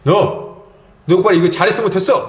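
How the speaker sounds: quick, loud parental telling-off; mock stern reprimand, rapid; acted scolding. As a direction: imitate a dad scolding his son. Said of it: "딱 세워놓고 혼내요".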